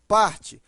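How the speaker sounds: "Parte" with a loud, firm PAR; stress on PAR. Shown as a demonstration. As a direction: hit the first syllable of "Parte". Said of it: "a sílaba mais forte é o par".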